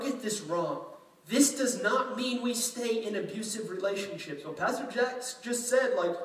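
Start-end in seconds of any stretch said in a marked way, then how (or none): 4.4-6.2 higher, louder, laughing mock voice; mock congregant. Pastor mocking a misreading listener, hammed-up laughing voice. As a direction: play a listener twisting the sermon, hammed up. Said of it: "That's not what this means".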